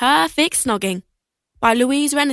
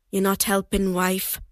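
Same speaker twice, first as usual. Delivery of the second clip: soft, low grumbling dad; muttering; 4 semitones lower, 6 dB quieter than usual. Acted. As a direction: mutter it under your breath. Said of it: "muttered Dad".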